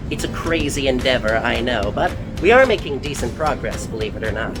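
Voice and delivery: muffled behind a mask; through a face mask. Real, not acted. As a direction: speak through a cloth mask. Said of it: "Don't mind the mask".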